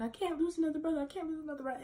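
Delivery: retold distressed plea. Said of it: "She was screaming".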